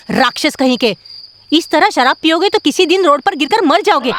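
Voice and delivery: put-on shouted scolding at drunks; angry scolding. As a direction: yell the warning at them. Wife scolds drunk men.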